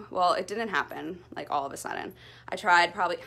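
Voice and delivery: breathless after a workout; winded, catching breath. Real, not acted. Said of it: "I'm still out of breath".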